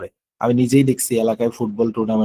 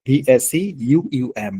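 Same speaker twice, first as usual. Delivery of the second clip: ভিএসি ইউইউএম spelled very slowly, letter by letter; very slow teacher dictation of ভিএসি ইউইউএম; slow spelling; much slower than usual. Shown as a demonstration. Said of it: "এই হলো ভ্যাকুয়াম".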